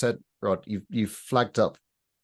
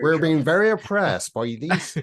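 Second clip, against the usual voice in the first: put-on West Country accent; 8 semitones higher, 4 dB louder than usual. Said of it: "doing West Country accents".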